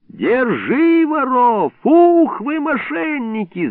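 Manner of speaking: a watchman yelling at thieves; yelled. Acted. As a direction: bellow at the thieves. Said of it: "заорал вдруг Илларион".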